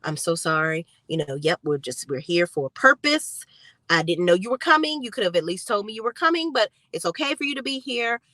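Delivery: low, sheepish mock apology; caught Zach. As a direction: play the guilty man backpedalling. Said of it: "looking like".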